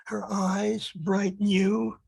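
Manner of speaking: measured poetry recital, phrase by phrase; poem reading. Acted. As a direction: read it as verse, pausing between short phrases. Reads second poem aloud.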